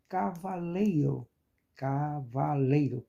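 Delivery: "cavaleiro" measured out, weight on lei; stress on penultimate syllable. Shown as a demonstration. Teacher asking students which syllable is strongest, stress on penultimate syllable. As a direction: space out "cavaleiro" and lean on lei. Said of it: "Qual a mais forte?".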